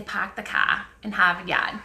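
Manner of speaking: dropped-R Boston "Park the car in Harvard Yard"; "Harvard Yard" as "Hahvahd Yahd", no R sounds, Boston style; Boston accent. Shown as a demonstration. Practicing her Boston accent for the viewers. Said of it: "I have to practice it in the mirror".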